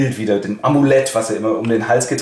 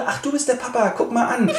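sarcastic; 10 semitones higher, 4 dB quieter than usual. Acted. Son mocks father.

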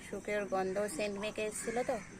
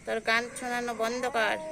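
loud call to stop the singing; 5 dB louder than usual. Real, not acted. Vlogger loudly tells a child to stop singing.

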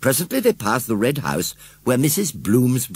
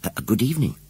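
put-on polite little girl; much faster than usual. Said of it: "said Susan politely".

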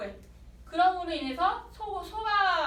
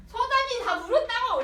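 higher, louder yell; cop shouting; 9 semitones higher, 6 dB louder than usual. Retold or imitated. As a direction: shout the lie to break him. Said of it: "이렇게 얘기를 하면서".

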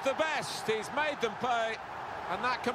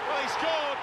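excited goal call; 4 semitones higher, 6 dB louder than usual. Acted. Commentator calls a goal.

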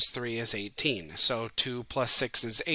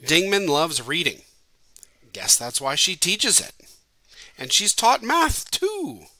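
reading a haiku; 5 semitones higher, 5 dB louder than usual. Shown as a demonstration. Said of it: "I also write this one".

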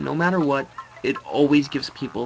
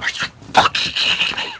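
high, strained disbelieving shout; furious disbelief; outraged yell; 8 dB louder than usual. Real, not acted. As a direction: scream in disbelief at the game. Outraged at a game setback.

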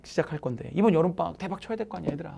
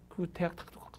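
a hushed, tempting whisper; softly whispered payoff; 11 dB quieter than usual. Real, not acted. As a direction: whisper it like a promised secret. Whispered promise of reward.

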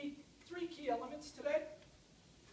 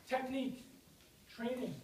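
short of breath from exertion; breathless, gulping between words. Real, not acted. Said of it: "Now I'm out of breath".

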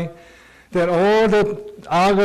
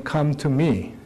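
tender Jesus. Acted. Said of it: "Jesus saying".

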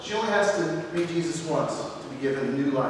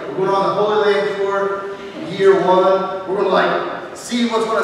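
louder, casual tourist chatter; mock tourist voice; 4 dB louder than usual. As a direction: play the Greeks as eager tourists.

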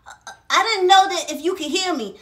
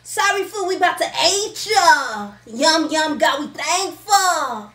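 prayer voice; 4 dB louder, slower than usual. Acted. Kid says grace.

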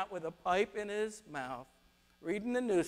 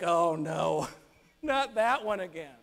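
a touch of weary annoyance, put-on voice; mock exasperation, lightly acted; exasperated eye-roll; 3 semitones lower than usual. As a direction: groan it like an unwanted visitor is back. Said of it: "rolling his eyes like".

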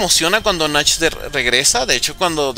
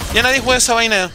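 ordinary delivery

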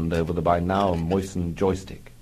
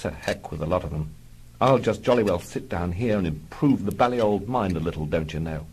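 musing. Acted.

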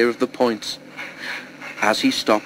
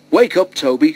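a touch of a smile, louder and higher; smiling; 5 semitones higher, 5 dB louder than usual. A narrator's reading. Driver wakes Toby in the shed, smiling. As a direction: wake him gently, smiling. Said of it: "smiled his driver".

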